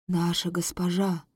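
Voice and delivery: low, hushed vow; solemn servant voice. Acted. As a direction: speak low like a loyal servant. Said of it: "произносит Аракх".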